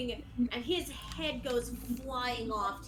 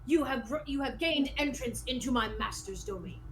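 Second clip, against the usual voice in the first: lightly voiced formal knight; skeleton knight. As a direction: declaim grandly as the master's servant. Game master voices skeleton knight.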